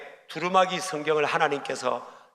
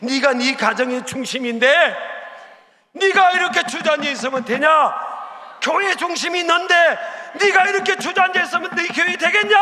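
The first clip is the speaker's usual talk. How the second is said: from stern to a much higher, louder cry; rebuke building to a shout; 9 semitones higher, 4 dB louder than usual. Acted. God scolding the believer who sits down, rising to a shout. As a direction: climb until you're shouting the reproach.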